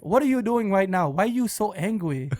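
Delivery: lightly put-on Asian accent; mock Asian accent. Fake car wash owner provoking angry customer, mock Asian accent. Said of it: "There's no Asian guy that owns".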